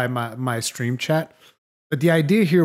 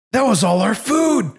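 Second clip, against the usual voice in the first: high-pitched outraged cry, not full volume; mock scream; 8 semitones higher, 3 dB louder than usual. Handler sees the camp supplies crushed, mock scream. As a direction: imitate a distraught handler crying out. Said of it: "she just screams".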